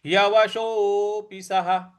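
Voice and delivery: slow, careful Sanskrit recitation; teacher modelling a verse slowly; slow recitation demo. Shown as a demonstration. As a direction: recite syllable by syllable for the learners. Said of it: "ह पर आधा र लगा हुआ है".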